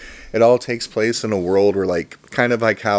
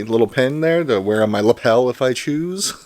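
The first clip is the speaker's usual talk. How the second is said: "lapel" given a light extra push at the end; stress on lapel; 3 semitones higher than usual. Real, not acted. Vlogger showing off the pin, leaning on "lapel". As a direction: lean a little on "lapel". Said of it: "I decided to emphasize the word lapel".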